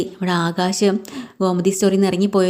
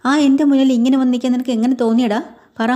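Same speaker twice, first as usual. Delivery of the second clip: raised, higher voice of an angry mother; scolding mother; 5 semitones higher than usual. Retold or imitated. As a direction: scold him like a hurt mother. Mother scolds drunk son. (ദേഷ്യത്തോടെ ശകാരിക്കുന്ന അമ്മ)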